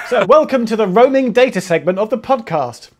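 laughing through a mock announcement; laughing welcome. Real, not acted. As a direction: grin and laugh while announcing the segment. Joking about the podcast's running gag.

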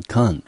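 con said alone as a clear syllable; syllable demo. Shown as a demonstration. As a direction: give the con syllable on its own, cleanly. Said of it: "第一个音节在C O N".

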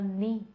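"ni" said as "nee", with no t; American ni ending. Shown as a demonstration. Teacher showing the twenty ending, t dropped. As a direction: end with a plain "nee" for "ni". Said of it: "t一般情况下不发音了".

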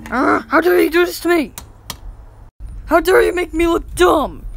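outraged. Acted. Boy scolding the console for insulting him, fast and outraged. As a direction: fire it back offended.

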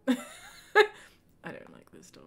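slow, laughing through the words; repeating her verdict through laughter. Shown as a demonstration. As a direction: giggle it out slowly.

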